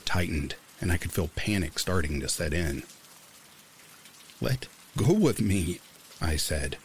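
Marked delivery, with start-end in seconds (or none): 4.4-5.8 forced steady voice. A narrator's reading. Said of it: "trying to keep my voice steady".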